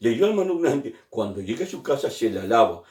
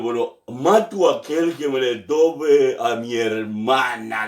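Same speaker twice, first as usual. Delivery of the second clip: put-on drunk threat; slower than usual.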